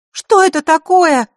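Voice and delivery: high, loud, slow frightened cry; terrified cry. Acted. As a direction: shriek it out in terror. Frightened girl hears creatures.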